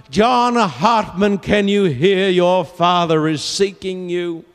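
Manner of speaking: high, long-drawn cry. Acted. Wounded soldier passing on the father's call, crying out. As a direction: call the name out urgently. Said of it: "and he cried out".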